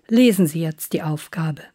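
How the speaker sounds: normal talking voice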